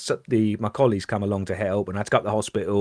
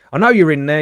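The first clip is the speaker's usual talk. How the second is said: louder, higher police call through a door; 6 semitones higher, 8 dB louder, faster than usual. Retold or imitated. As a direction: shout it at a closed flat door. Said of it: "knock on the door and go".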